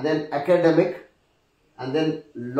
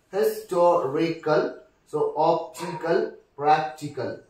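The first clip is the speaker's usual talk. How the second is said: broken into syllables. Shown as a demonstration. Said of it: "the third syllable".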